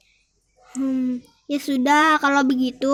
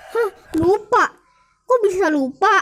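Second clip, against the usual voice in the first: surprised nagging; 2 semitones higher than usual. Acted. Istri kaget suami lupa bayar.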